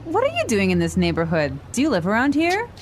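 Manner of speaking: quick, natural conversational pace; natural speed. Shown as a demonstration. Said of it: "this time at natural speed".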